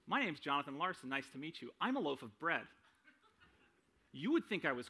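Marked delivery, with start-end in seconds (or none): 0.0-2.7 quick, cheery fake self-introduction, breaking into a laugh; mock introduction. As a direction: rattle it off like a silly handshake greeting, then laugh. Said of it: "If I introduced myself to you and said".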